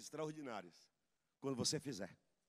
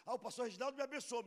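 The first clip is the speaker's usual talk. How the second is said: mock grateful girl; 8 semitones higher, much faster than usual. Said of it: "a menina tá falando assim".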